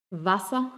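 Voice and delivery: "Wasser" ending in an open A; vocalized final R. Shown as a demonstration. Teacher demonstrating "Wasser" with final R as A. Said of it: "termina como un sonido de A".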